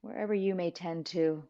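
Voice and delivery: calm, measured guiding voice with long pauses; guided meditation. Real, not acted. Teacher guiding listeners to settle and breathe, calm meditation voice. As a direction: ease them into stillness, unhurried.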